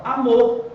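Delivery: amor with the final syllable stressed; stress on MOR. Shown as a demonstration. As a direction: let MOR carry amor. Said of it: "a sílaba tônica é mor".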